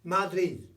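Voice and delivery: "Madrid" with the last d softened to a dribbly th; dribbly final d. Shown as a demonstration. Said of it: "a sort of a dribbly z".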